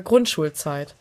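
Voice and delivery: usual speaking voice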